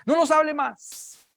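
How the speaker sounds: high-pitched, panicky pleading; frightened crowd. Acted. Frightened people begging the prophet to speak instead of God, panicky. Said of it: "la gente tenía temor".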